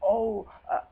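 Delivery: mock-innocent brush-off, voice up high; a hint of a guilty partner making excuses; foolish excuse. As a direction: lightly imitate a weak dodge. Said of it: "or something foolish like that".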